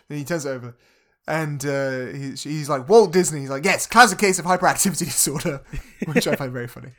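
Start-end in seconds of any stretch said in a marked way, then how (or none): 2.9-3.4 loud burst on the name; a sudden louder mock exclamation; exclaimed name. Acted exclamation in film retelling. 3.6-5.6 loud, emphatic retold reply; boisterous imitation breaking into a laugh; mock exclamation. Acts out Walt Disney's reply.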